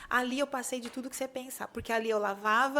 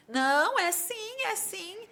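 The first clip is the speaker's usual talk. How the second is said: insisting salesmen; 7 semitones higher, slower than usual. Retold or imitated. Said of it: "E os meus vendedores".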